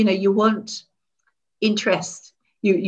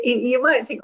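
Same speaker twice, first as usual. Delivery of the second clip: ordinary talk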